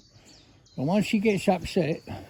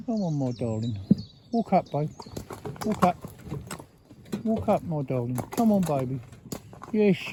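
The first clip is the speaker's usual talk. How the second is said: coaxing a horse. Real, not acted. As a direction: gently encourage him step by step.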